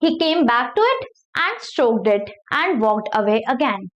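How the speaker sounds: slow, careful reading of an English novel passage; slow read-aloud. Acted. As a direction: read each word out slowly for the class. Teacher reading novel aloud slowly. (धीमी आवाज़ में पढ़कर सुनाना)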